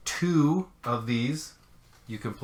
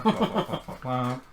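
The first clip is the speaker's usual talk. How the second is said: mock babble. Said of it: "I'll pretend to shuffle".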